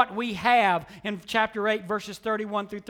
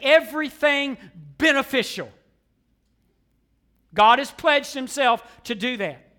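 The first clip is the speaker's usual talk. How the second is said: forceful preaching. Acted. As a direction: preach it, every phrase a blow. Preaching builds emphasis.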